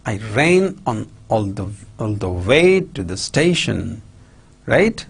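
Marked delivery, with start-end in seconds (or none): 0.1-4.0 weight on "ran", "way" and "station"; I RAN all the WAY to the STATION; sentence stress. Shown as a demonstration. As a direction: lean on the content words "ran", "way", "station". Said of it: "sentence stress".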